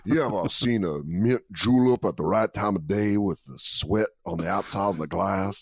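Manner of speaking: a hint of Southern gentleman; lightly kept Southern drawl. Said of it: "ride out that voice".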